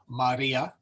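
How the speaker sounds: Maria, short A, long I, said slowly; slow teaching Maria; Latin vowels. Shown as a demonstration. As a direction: lean on the middle syllable of Maria. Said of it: "we have a short A and a long I".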